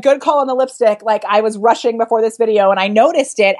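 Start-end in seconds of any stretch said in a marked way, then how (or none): 0.0-1.0 sugary sweet; overly nice; killing with kindness. Retold or imitated. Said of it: "kill her with kindness".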